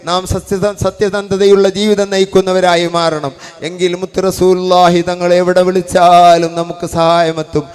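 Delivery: loud, driving sermon voice; fiery preaching. Acted. Preacher exhorting brothers to live honestly, loud fervent preaching. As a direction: preach it out to the whole hall with force.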